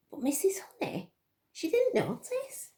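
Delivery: breathy hushed storyteller whisper; hushed suspense; suspenseful whisper. A narrator's reading. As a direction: lean in and whisper the secret. Storyteller building suspense for children.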